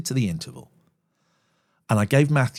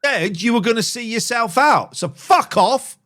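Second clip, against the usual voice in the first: angry dismissal; 11 semitones higher, 5 dB louder than usual. Real, not acted. Host telling a caller to leave, angry. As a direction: tell him to get lost, furious.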